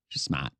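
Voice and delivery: "smart" said "smaht", the R dropped; "Just smart" with a Boston "smaht". Shown as a demonstration. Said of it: "you don't say the R".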